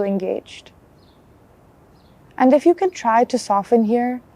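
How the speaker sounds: calm guided body scan with long pauses; unhurried mindfulness guide, even and measured; guided meditation. Acted. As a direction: lead them gently through a check-in, leaving space between phrases.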